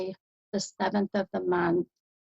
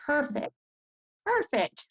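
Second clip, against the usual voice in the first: bright, rising excitement on each word; thrilled the reading landed; happy exclamation, the second one higher; delighted; 6 semitones higher than usual. Real, not acted. Medium delighted by the mother's name match.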